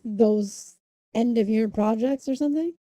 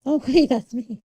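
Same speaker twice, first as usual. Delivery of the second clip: laughing; 3 semitones higher, 9 dB louder than usual. Real, not acted. Jokes about seeing her own stream.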